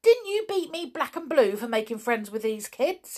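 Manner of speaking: Nobby can't believe his ears; amazed demand. A narrator's reading. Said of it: "he demanded".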